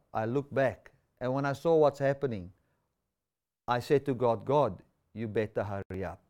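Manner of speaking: lightly imitated Xhosa accent. Isaac answering the driver about his prayer, attempted Xhosa accent. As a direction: have a go at a Xhosa English accent, deliberate phrases. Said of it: "in his accent, now I'm gonna try and make it".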